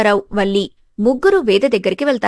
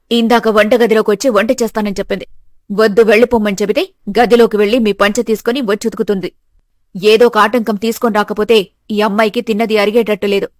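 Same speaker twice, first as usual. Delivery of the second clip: mother-in-law, scolding; 2 semitones lower, 3 dB louder than usual. Acted.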